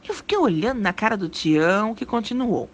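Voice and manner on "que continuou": ordinary delivery, nothing marked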